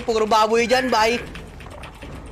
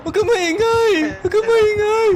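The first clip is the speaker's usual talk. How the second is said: raised, high-pitched warning; anxious command; 4 semitones higher than usual. Real, not acted. Player telling someone not to make noise, tense high command. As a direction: urge them to keep still. Ordering others to be quiet, stay.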